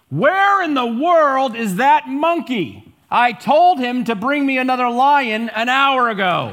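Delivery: loud, high yell in a dog voice. Telling a joke, the dog yells out to the approaching lion: dog yelling loudly. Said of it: "the dog yells out in a loud voice".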